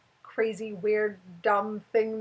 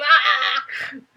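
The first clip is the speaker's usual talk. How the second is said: playful mock squeal; 3 semitones higher, 5 dB louder than usual. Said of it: "be like".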